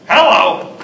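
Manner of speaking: a loud, booming Hello. Shown as a demonstration. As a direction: belt out Hello like hailing someone. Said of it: "all the ways you can say hello".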